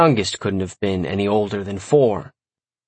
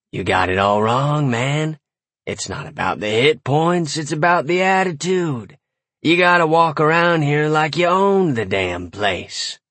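remembered warlock mentor, lightly voiced; brash pep talk with attitude; cocky warlock; 4 semitones higher than usual. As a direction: swagger through the advice, pitch climbing.

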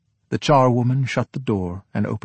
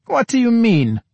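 high, sugary, taken-aback question; dumbfounded; 12 semitones higher, 5 dB louder than usual. Acted. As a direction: play it startled with a saccharine smile.

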